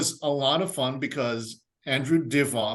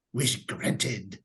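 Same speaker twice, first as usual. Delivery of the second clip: genie; 3 semitones lower, 4 dB quieter than usual. Retold or imitated. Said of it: "It's like".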